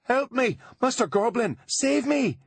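hammed-up high shrieking plea; mock hysterical crying. Juliet fakes distress to fool the goblin, high and loud. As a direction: fake panic to lure the guard. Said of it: "crying hysterically".

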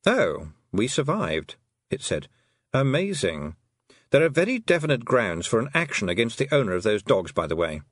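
lightly voiced dry lawyerly toad; a deadpan amphibian pointing out a legal case; dry talking toad.

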